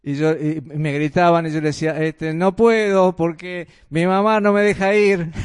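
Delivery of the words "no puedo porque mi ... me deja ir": lightly voiced boy calling back, a bit louder; a hint of a kid's excuse, called out to friends; niño excusándose. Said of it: "yo era chico". (niño que se excusa en voz alta, levemente imitado)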